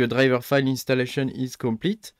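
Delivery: English read with a heavy French accent; bad French-accented English. Real, not acted. Streamer reading an installer message aloud, thick French accent. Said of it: "Avec mon super accent bien pourri".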